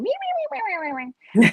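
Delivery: high squawky me me me; parrot voice. Retold or imitated. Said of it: "that little parrot voice".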